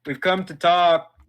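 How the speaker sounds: loud friendly call across distance. Acted. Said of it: "Give him a big wave and say".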